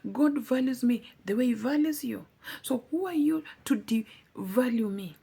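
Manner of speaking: wounded protest, pitch and volume up; indignant retort. Retold or imitated. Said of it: "And I was like".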